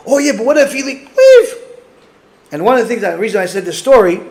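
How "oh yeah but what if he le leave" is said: squeaky, laughing mock worry, pitch jumping high; laughing mockery. Preacher mocks a worried religious objector with a laughing squeak. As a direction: poke fun at the fretting objector.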